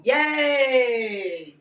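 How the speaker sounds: long drawn-out, falling "yay"; mock cheer. Seller after glasses rip her hair, mock cheer. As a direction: cheer it, letting it slide down.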